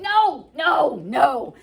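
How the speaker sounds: hammed-up teen shouting back; shouted refusal. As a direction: Romeo yelling at his nagging father, mock shout. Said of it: "And Romeo was like".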